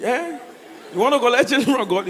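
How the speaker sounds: incredulous. Retold or imitated. Lady incredulous at request.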